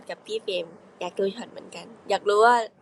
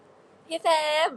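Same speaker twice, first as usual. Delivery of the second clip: higher and slow, drawn-out พี่เฟรม; cute higher voice; 7 semitones higher, much slower than usual. Shown as a demonstration. Showing fans the voice for พี่เฟรม, high and slow. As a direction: sweetly stretch พี่เฟรม up high. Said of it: "เสียงประมาณนี้".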